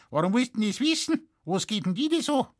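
put-on high, quick suspicious old woman; curious old woman. A narrator's reading. Widow questioning the forester, high and fast.

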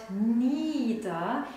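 slow, stretched nieder; drawn-out word. Retold or imitated. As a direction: drag the word out. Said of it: "ewig lang gedauert hat".

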